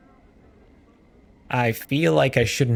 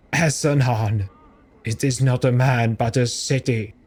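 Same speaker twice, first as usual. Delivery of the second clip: grieving monk. Acted. Grieving crier telling the stranger of his city, solemn. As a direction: mourn it.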